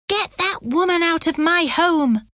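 high-pitched hysterical outburst, volume held back; mock scream. A narrator's reading. Hysterical mistress ordering a convict out, restrained mock scream. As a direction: shriek it in a contained storyteller's way. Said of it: "pointed at me and screamed".

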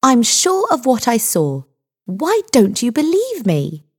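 high-pitched, pleading insistence. A narrator's reading. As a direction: raise the pitch in frustrated protest. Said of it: "raising her voice".

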